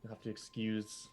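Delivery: soft, refined frog lady; frog lady Dorian. Acted. Dorian excuses Jim to the crew, soft and refined. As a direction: speak quietly and graciously. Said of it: "this frog lady comes over and she says".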